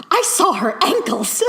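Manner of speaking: high, loud, laughing mock thrill; hammed-up delighted gasp; giddy excitement. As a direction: squeal it like a lovesick boy. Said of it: "he was so excited about that".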